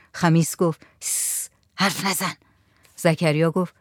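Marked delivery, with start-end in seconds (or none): 1.0-2.3 soft, hushed warning; hushing. A narrator's reading. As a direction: shush them under your breath. Hushing others while old man thinks. (آهسته هیس کردن)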